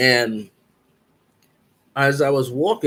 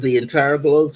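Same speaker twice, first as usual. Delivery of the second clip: rising, a bit louder, amazed; astonished question; 4 semitones higher, 5 dB louder than usual. Retold or imitated. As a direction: ask it in disbelief. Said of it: "I said".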